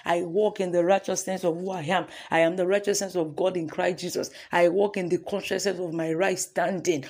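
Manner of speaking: firm confession for the congregation to repeat; declaration. Acted. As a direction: declare each line with conviction. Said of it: "Let's say".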